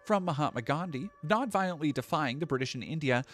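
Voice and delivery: mock condescending reading of the op-ed. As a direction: read it in a mildly condescending voice. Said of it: "The condescending shitbag tone".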